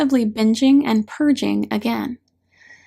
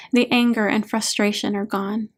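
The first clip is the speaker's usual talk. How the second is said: plain reading voice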